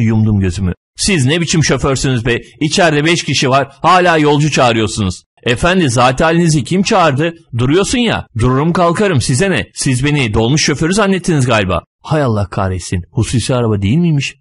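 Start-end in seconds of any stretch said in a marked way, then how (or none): 1.0-5.2 raised-pitch, mildly indignant scolding. Acted. Passenger berates the driver for picking up more people, indignant. 5.4-11.8 higher-pitched, indignant comeback; offended retort. Acted. Car owner mistaken for a minibus driver answers, offended.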